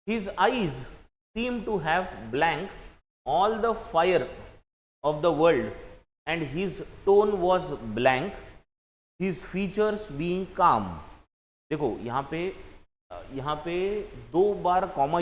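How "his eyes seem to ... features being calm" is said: very slow, measured reading of the sentence; teacher slowly reading an exercise sentence to students; slow read-aloud. Shown as a demonstration. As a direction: read each phrase out as if dictating.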